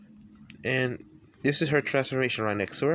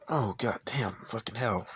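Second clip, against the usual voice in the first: whispered cursing. Real, not acted. Forgets name, curses to self.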